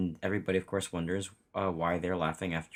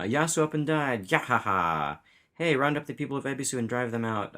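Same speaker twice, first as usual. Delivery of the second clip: jeering guard; 6 semitones higher, 4 dB louder than usual. Acted. Guards jeering in manga reading.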